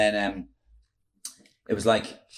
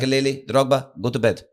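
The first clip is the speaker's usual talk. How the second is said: lightly imitated manager giving orders; Mourinho; 4 semitones higher than usual. Manager sends the Chelsea players to bed, imitated command. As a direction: dismiss players by name in his accent. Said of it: "he said to everybody".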